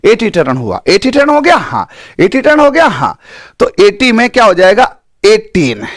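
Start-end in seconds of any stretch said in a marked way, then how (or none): 0.9-1.6 put-on एटी टर्न हो गया pitched higher in a lisping child's way; high childish lisp on एटी टर्न. Shown as a demonstration. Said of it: "जैसे तोतला". 2.2-2.9 put-on एटी टर्न हो गया pitched higher in a lisping child's way; high childish lisp on एटी टर्न. Shown as a demonstration. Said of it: "जैसे तोतला".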